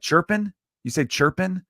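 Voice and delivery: high, amused disbelief at the word chirping; surprised. Retold or imitated. An American hears the Canadian slang chirping, surprised and high. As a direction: echo the strange word back, baffled.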